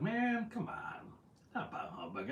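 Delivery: slow drawn-out groan of disappointment. Real, not acted. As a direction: let it sag in mock dismay. Groaning at the Bah Humbug votes.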